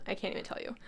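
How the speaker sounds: breathless whisper, overcome with love; awed whisper. Real, not acted. To viewers about her new deck, a soft awed whisper. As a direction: whisper it like you can't find words.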